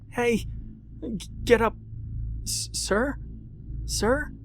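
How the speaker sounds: high stammering calls; a scared girl trying to wake him; frightened calling. A narrator's reading. Rebecca calls to the silent man.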